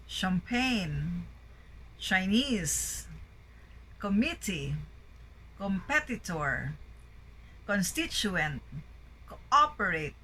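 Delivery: each word like "appreciate" peaking on its second syllable; second-syllable stress. Shown as a demonstration. Teacher drilling the list, second syllable stressed as in "bamboo". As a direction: list reading, "committee" with MIT stressed. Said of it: "primary stress on the second syllable".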